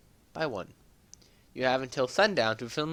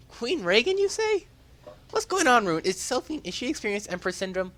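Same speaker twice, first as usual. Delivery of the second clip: high, loud, breathless calling and stammering; relieved shouting across the radio; overjoyed young hero; 7 semitones higher, 6 dB louder than usual. Acted.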